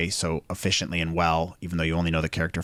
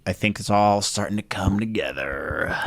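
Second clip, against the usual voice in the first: lightly put-on Kronk voice, drawn out; slow, stretched meme-quote delivery; Kronk impression. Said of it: "It's that Kronk meme".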